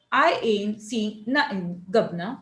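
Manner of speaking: slow dialect voice for I ain't seeing nothing; dialect delivery. Shown as a demonstration. Teacher voicing a regional character's line. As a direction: drag it out like a rustic local. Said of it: "you have to write it also like that".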